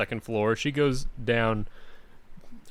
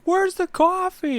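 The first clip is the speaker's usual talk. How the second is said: grumpy dad; 5 dB louder, slower than usual. Retold or imitated. Dad voiced searching for coffee.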